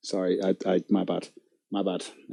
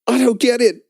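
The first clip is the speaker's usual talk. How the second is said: higher, louder whiny mock line; mocking the rival streamer; 8 semitones higher, 4 dB louder than usual. Streamer retrying the rival's line, mock whiny and high. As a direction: pout it out like the hurt rival. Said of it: "I'm gonna try and do like him".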